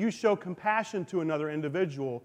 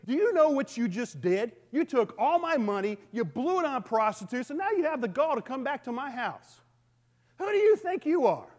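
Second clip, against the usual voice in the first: scolding father; 4 semitones higher than usual. Retold or imitated. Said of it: "Some fathers would, would say".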